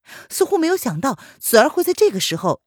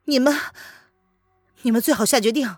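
cold bargaining; 4 semitones higher, 3 dB louder than usual. Acted. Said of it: "语气冷漠无情".

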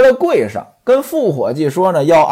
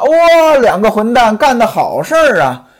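sudden higher, louder outburst of scolding; angry scolding; 4 semitones higher, 4 dB louder than usual. Acted. Mistress catching two servants in bed, furious scolding yell. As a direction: burst in and let fly at them. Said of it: "潘金莲张嘴就骂".

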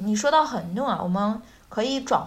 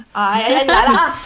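customer greeting; 8 dB louder, faster than usual. Pretend. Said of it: "说一遍这个对话".

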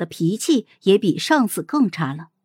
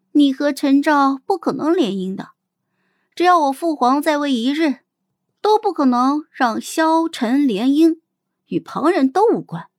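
plain-spoken and firm, pitched higher; blunt, frank; 5 semitones higher than usual. Acted. Princess telling the Xiao girl the marriage is impossible, bluntly. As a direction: state it frankly, without softening. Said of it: "直白地对她说".

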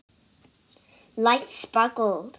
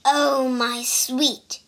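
relieved monster voice; slower than usual. Acted. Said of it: "he cried".

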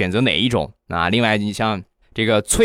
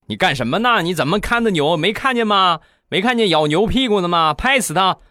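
put-on higher, sharp scolding of a careless kid; scolding grandpa; 8 semitones higher than usual. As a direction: tell the kid off like an impatient grandpa. (爷爷责备孙子)

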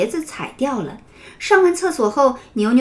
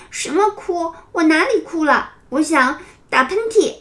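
defensive denial; 6 semitones higher than usual. Acted. Denying crying, annoyed.

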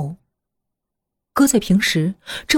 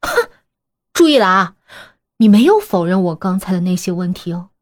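sneering; 3 dB louder than usual. Acted. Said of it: "青青毫不客气地冷笑着".

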